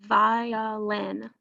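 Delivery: "Violin" in three measured beats; syllable by syllable. Shown as a demonstration. Teacher leading students to count syllables, "Violin" broken into syllables. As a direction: sound out "Violin" one syllable at a time. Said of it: "Let's do it together".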